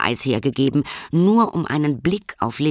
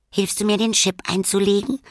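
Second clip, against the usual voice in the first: eager question; 9 semitones higher than usual. Acted. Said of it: "fragte Lilly".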